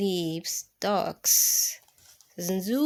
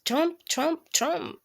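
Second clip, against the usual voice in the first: stomping sounds; 5 semitones higher than usual. Pretend. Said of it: "I don't really sound like a little mouse".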